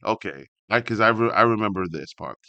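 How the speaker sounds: ordinary talk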